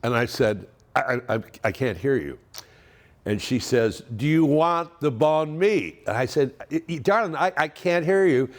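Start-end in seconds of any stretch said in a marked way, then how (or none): 4.2-6.0 slower, higher, more emphatic repeat; raised-pitch, drawn-out question for someone who can't hear; repeating over the din. Retold or imitated. Repeats louder over airport din. 6.7-8.5 higher, stammering plea to a spouse; retold stammering protest, pitched up; exasperated can't-hear. Retold repeat, straining over din.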